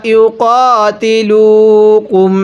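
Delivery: ইউকাতিলুকুম recited slowly with the full final কুম; careful tajweed reading of ইউকাতিলুকুম; correct ইউকাতিলুকুম. Shown as a demonstration. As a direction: recite ইউকাতিলুকুম whole, not cut at ইউকাতিলু. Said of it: "এখানে ইউকাতিলু পড়ব না".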